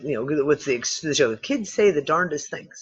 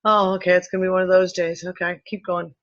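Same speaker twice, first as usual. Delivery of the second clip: quick unbothered sigh of acceptance; resigned shrug; 3 semitones higher than usual. Retold or imitated. Now she just accepts the dizzy spell, brisk resigned shrug. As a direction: brush it off and move on. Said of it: "it's like".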